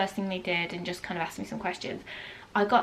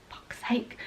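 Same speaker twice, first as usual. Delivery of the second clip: whispered exasperated swear under the breath; frustrated whispered aside; muttered curse; 5 dB quieter than usual. Retold or imitated. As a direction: hiss it to yourself in frustration. Frustrated at long wait board.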